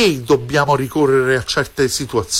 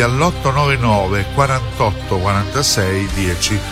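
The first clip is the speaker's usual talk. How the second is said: ad read. Acted. Phone number ad read over music.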